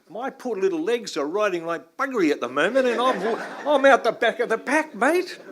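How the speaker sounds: laughing loudly and high at his own joke. Real, not acted. Joking to the audience about falling behind, laughing loud and high. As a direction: crack up while confessing you're lagging.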